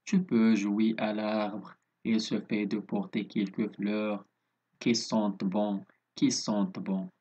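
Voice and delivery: slow, measured poem reading with even pitch; poem recitation. Shown as a demonstration. Teacher reading a poem to pupils, slow and measured. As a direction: recite it line by line, unhurried.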